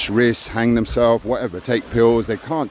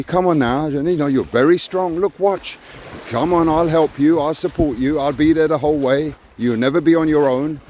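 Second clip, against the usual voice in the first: raised, encouraging coaxing in a father's voice; 5 semitones higher than usual. Retold or imitated. Father urging his scared son into the water, warm coaxing. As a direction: gently talk a scared child into the sea.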